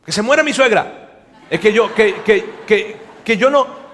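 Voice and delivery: mock-panicked denial under oath; swearing denial. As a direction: protest too much, tripping over words. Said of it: "esta vez con un juramento".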